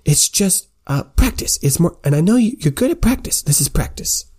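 pitched high, insisting it's only practice; chirpy correction, ending in a whisper; high, insistent scholar. Acted. Sympathy telling the squire it's not school, high and insistent.

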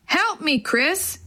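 high cry for help; shouting for help. Acted. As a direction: call out to Chris, stuck in the mud. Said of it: "he shouted".

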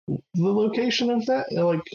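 fast, high-pitched disbelieving question; incredulous guildmaster. Acted. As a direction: press him, amazed he doesn't know. NPC questioning the player character.

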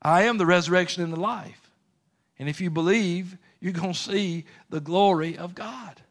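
Jesus reminding Martha, proclaimed with force; emphatic declaration. Acted. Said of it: "Let me remind you what I told you".

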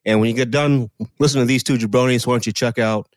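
lightly voiced movie-star thank-you speech; a hint of a humble celebrity greeting the crowd; Dwayne Johnson impression. Host as a star thanking guests, lightly voiced. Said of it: "Let me try his current voice".

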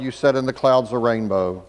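normal talking voice

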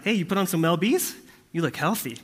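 laughing grandma teasing. Retold or imitated. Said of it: "she's like".

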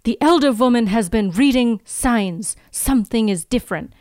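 put-on an old Romani man's warning in a mild Russian accent. Retelling the villain's lines, mild Russian accent. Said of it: "hear me try to do an accent".

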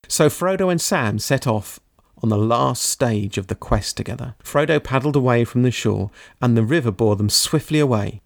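measured audiobook reading voice; story narration. A narrator's reading. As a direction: read the passage steadily, letting it build. Reads Tolkien ending aloud.

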